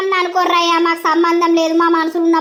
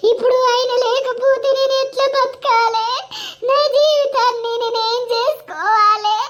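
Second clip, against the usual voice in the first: rising tearful wail; 5 semitones higher than usual. Acted. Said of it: "ఏడవకురా Sirisha".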